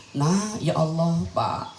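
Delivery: low, slow tearful wail; mock crying. Old-time mother crying to her husband, mock tearful. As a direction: act out a mother weeping. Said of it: "Nangis emak kita".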